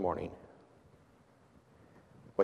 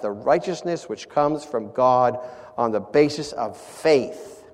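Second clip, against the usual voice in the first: emphatic, slightly louder reading from the pulpit; scripture reading; 2 semitones higher, 4 dB louder than usual. Acted. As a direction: declaim the verse, punching key words. Reads scripture aloud to congregation.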